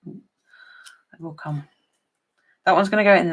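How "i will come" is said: drawn-out promise. Real, not acted. Promising to visit Mary.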